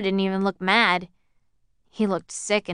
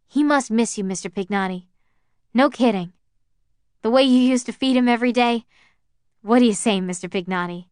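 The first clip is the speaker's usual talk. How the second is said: coaxing; 3 semitones higher, 4 dB louder than usual. Acted. Coaxing lonely old man.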